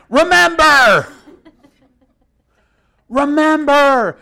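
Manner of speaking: laughing. Real, not acted. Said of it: "laughing emphatic answer".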